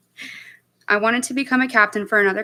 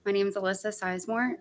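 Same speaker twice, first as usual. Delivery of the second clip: nervous, softer and hesitant; shy, shaky start at the mic; stage fright; 7 dB quieter than usual. Real, not acted. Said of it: "Sorry, I'm a little nervous".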